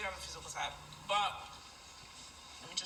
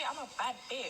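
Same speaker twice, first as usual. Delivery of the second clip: sassy model line; 2 semitones higher than usual. Shown as a demonstration. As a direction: say it with attitude, stress on "bad". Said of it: "Yeah, say".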